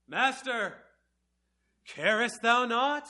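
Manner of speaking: put-on slow, high, solemn old-English plea; formal King James quote. Disciples in the storm, quoted in formal King James words. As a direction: read it like the stately Bible wording. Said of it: "They didn't say it like that".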